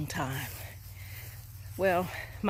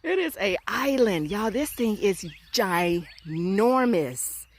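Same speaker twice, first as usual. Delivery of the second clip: amazed; 4 semitones higher, 5 dB louder, slower than usual. Real, not acted. Amazed at huge tree.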